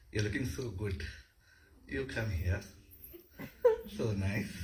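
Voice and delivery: soft, low admiring murmur to a beloved; romantic admiration. Shown as a demonstration. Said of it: "the way we enact Shringara".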